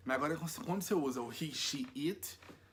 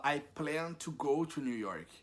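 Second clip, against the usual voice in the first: slow model sentence; slower than usual. Shown as a demonstration. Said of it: "Você fala".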